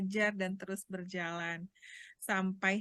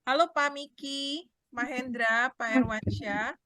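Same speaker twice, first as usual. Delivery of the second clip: louder voice; 3 semitones higher, 5 dB louder than usual. Real, not acted. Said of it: "besarkan kembali suaranya".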